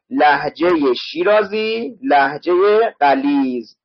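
slow, drawn-out word-by-word reading; slowly spaced out for learners; slow teaching repeat. Shown as a demonstration. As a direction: stretch each word for the class. Teacher repeats phrase slowly for spelling.

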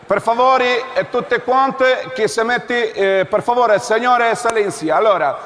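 lightly voiced pompous checkpoint officer; security officer voice. Comic making the couple answer airport security questions, officious.

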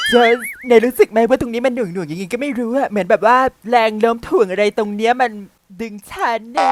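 mock weighed-down groaning talk; strained heavy voice. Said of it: "ทำไมต้องทำเสียงแบบนั้นด้วย".

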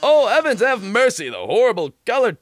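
grand, hammy showman voice; theatrical TV host. Acted. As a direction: play a flamboyant robot star. Voices dramatic robot host.

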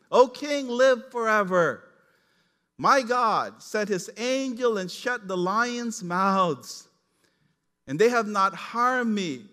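loud, slow, solemn declaration to the king; a loud, measured proclamation; proclaiming Daniel. Acted. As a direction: call up from the den with steady conviction. Daniel answers the king from den.

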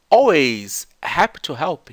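"Always happy to help" slow, joined into one chunk. Shown as a demonstration. Teacher showing students the clip's run-together chunk. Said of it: "ela faz um chunk gigante".

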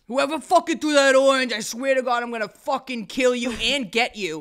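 high, loud, over-the-top tirade; mock furious threat. Re-enacting a story post to the orange thrower, furious shout. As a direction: yell it, slowing down for the final threat.

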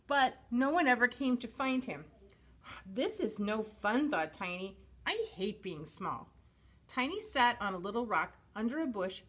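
animated picture-book reading with lively emphasis; story narration. A narrator's reading. Reading a dinosaur picture book to children, expressive storytelling. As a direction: read it expressively for little listeners.

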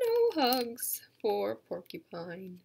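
slow, even title; slow title read again. Shown as a demonstration. Educator repeating the title for the kids, slowly. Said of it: "It's called".

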